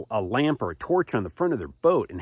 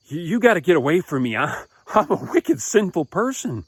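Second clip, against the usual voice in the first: raised, stammering acted plea; overwhelmed plea; 4 semitones higher, 3 dB louder than usual. Peter kneeling before Jesus, overwhelmed stammering plea. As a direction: push it higher, stumbling over the first words.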